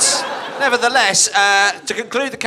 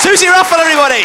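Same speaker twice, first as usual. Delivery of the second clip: announcer shout-out; 8 semitones higher, 6 dB louder, faster than usual. Real, not acted. Host introducing contestant.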